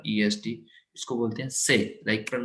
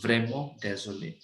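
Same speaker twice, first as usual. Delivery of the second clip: vraiment désolé said very slowly and softly; slow dictation; 4 dB quieter, much slower than usual. Shown as a demonstration. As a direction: dictate it syllable by syllable. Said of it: "ठीक है". (धीमे, धीरे से लिखवाते हुए)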